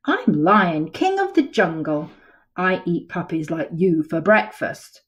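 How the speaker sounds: loud, proud lion king boast; roaring lion. Acted. Lion boasting to the puppy, loud and proud. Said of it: "He roared at me".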